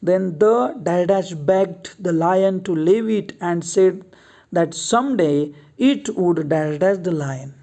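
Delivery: reads each word out slowly for the class to copy; slow dictation reading. Shown as a demonstration. Teacher reading the fill-in story to students, slow and deliberate. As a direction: spell the passage out word by word, unhurried.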